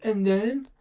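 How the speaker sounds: high, put-on Duck voice asking eagerly; imitating Duck. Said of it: "He's like".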